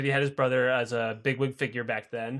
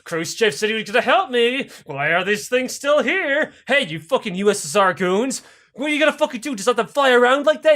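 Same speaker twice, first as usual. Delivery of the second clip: high-pitched acted complaint; fed-up Castro; 6 semitones higher, 4 dB louder than usual. Fed-up Castro scolding Soviet troops, exasperated rant.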